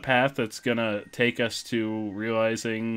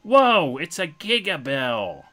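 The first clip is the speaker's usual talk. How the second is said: high, loud whoa, then drawn out; Bowser Junior; 5 semitones higher, 6 dB louder, slower than usual. Acted. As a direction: marvel as an excited kid koopa. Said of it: "Looks like Bowser Junior has more to say".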